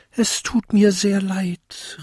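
high-pitched small bell apology; high little bell, apologetic; little bell calling. A narrator's reading. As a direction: call out an apology in a tiny high voice. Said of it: "rief die kleinste Glocke".

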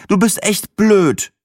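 high, slow, put-on sulky voice; mock annoyed friend. A narrator's reading. Sina scolding the narrator, slow and huffy. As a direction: drag it out, fake offended.

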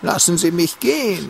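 sneering parody of his begging; mocking whine. Captor mocks the boy's plea, fake crying. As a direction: mimic the plea with a fake cry.

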